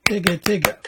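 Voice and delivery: Tigga Tigga with each of its four syllables cleanly separated; the right way, every syllable spoken. Shown as a demonstration. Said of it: "let me do that again".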